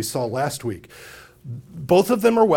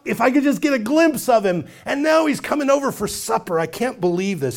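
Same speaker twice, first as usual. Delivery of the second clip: rejoicing; 5 semitones higher than usual. Acted. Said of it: "He's rejoicing".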